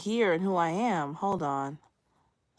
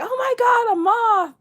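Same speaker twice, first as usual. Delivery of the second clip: much higher, louder shriek of fright; imitating a much higher, louder panicked squeal; startled panic; 10 dB louder than usual. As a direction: reenact squealing at the moth. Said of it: "And I was like".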